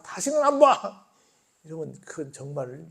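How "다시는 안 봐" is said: slow, higher huffy yell; preacher mocking a childish sulk, slow huffy yell; sulky yell. Stretch it out like a pouting child. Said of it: "한 번 삐졌다고".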